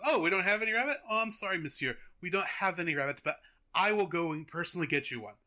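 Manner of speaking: put-on not very good French accent; apologetic mock-French waiter. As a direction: play it as a hammy French accent. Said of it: "This is not a good French accent".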